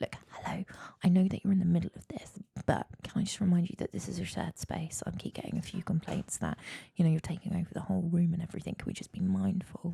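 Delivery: acted, polite, soft whisper. Retelling what the speaker politely told people in the shared room, whispering. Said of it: "why are we whispering?".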